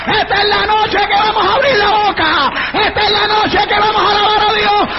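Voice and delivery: sustained shouted sermon with stretched endings; fervent, ringing revival shout; full-force preaching. Real, not acted. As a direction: cry it out to a roused congregation.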